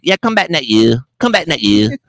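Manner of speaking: put-on high, light Asian-accented voice; imitating nail lady. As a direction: mimic the pedicurist's broken English. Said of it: "And she's like".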